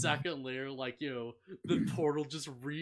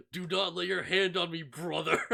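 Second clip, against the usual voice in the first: loud, raised, grandly commanding; hammed-up ancient hero giving an order; mock epic warrior; 3 semitones higher, 6 dB louder than usual. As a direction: issue a pompous warning for laughs. Acts kid turned ancient warrior.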